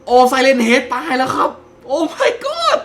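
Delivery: very high loud victory shrieks; ecstatic screaming. Real, not acted. Gamer just killed Siren Head, screaming to viewers in joy.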